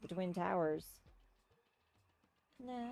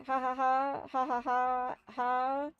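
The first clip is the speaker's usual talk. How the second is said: hearty laugh; 4 semitones higher, 6 dB louder, slower than usual. Acted. Character laughs loudly.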